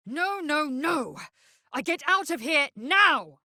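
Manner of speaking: high frantic pleading; panicked. Acted. Trapped creature begging to escape, high and frantic. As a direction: beg to get out, voice climbing in panic.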